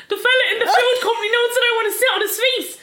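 high, loud, laughing through words. Retold or imitated. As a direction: blurt it while cracking up. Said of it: "I rang Graham to be like".

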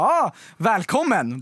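drawn-out, mildly stiff welcome; awkward welcome. Retold or imitated. She greets the neighbour moving in, awkward retold welcome. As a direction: imitate making stilted small talk slowly. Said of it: "det är bara stelt".

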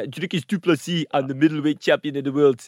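put-on hard-edged South African fighter's accent. Podcaster impersonating a middleweight champion, South African accent. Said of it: "South Africa's a good one".

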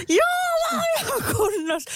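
very high, squeaky "I'm fine"; mock cheery reassurance. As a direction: chirp it up high, brushing it off. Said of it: "ja mä oon sille, sieltä lattialta". (kimeä teennäisen reipas vakuuttelu)

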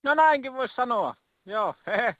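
lightly chipper caller with a small chuckle; too perky. Acted. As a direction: sound a touch too upbeat for a confession. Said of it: "turhan pirtieltä". (vähän turhan pirteä)

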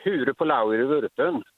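slow question in thick Smögen dialect. Shown as a demonstration. Caller testing the host's knowledge, Smögen dialect. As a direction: pose it slowly in Smögen dialect. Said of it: "testa dina kunskaper i lite Smögendialekt".

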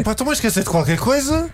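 dazed dehydrated self. Pretend. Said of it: "e digo assim".

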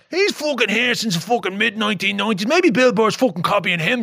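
high, indignant fan defending him; indignant Irish fan. Retold or imitated. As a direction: voice the riled-up Irish fans. Voicing defensive Irish fans.

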